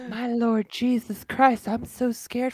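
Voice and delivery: high, slow, trembling mock voice; mocking scared old man. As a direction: ham up a frightened old man. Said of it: "I'm making fun of his voice".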